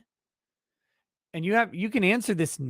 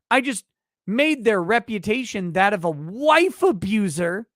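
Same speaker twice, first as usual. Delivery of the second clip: mocking indignant accused. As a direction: ham up their outraged innocence. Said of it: "they're always like".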